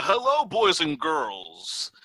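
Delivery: drawn-out showman greeting; clown voice. Pretend. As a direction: ringmaster type thing. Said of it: "I tried to do a clown voice".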